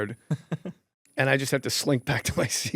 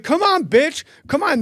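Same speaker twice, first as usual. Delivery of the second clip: much higher taunting shout; taunting yell; 5 dB louder than usual. Retold or imitated. Comic taunting the heckler to fight. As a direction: goad him into a fight.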